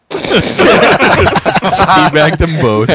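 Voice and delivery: high laughing taunt. Real, not acted. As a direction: crow it through a laugh.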